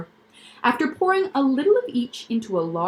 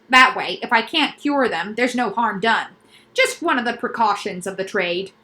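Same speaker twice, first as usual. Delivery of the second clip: quack doctor voice. Acted. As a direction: pitch the noises like a proud specialist. Doctor character voice.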